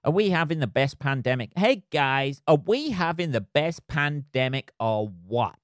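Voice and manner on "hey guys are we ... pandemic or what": hammed-up American accent; bad American accent. Vlogger hailing the guys about the pandemic, bad American accent. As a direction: put on a terrible, over-keen American accent. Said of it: "he says in the worst American accent ever".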